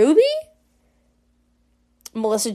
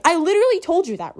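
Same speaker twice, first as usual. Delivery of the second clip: acted indignation; 7 semitones higher, faster than usual. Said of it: "Ruby's just like".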